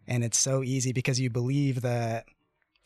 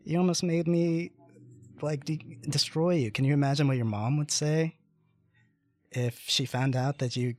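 higher-pitched mock scolding of a victim; retold abuser; 4 semitones higher than usual. Abusive companion blames him after the attack, retold scolding. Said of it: "Total abuser".

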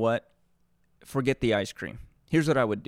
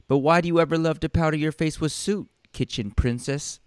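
sneering; 5 semitones higher than usual. Acted. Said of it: "they sneered".

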